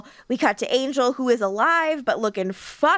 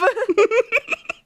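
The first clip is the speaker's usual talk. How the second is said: high giggling burst; high laugh; 11 semitones higher, 3 dB louder than usual. Real, not acted.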